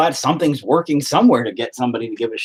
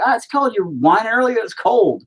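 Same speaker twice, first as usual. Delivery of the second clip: mock whining kids; 9 semitones higher than usual. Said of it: "you guys wouldn't be like".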